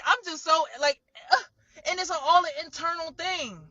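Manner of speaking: real sobs breaking through the words; crying. Real, not acted. Talking about her family's cruelty, crying. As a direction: voice breaking into tears.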